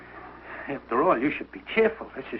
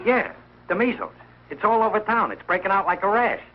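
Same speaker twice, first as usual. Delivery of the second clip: raised pitch, worked-up insistence; alarmed reporting; 5 semitones higher than usual. Acted. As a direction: spread the alarm with great importance. Urgently reports epidemic by phone.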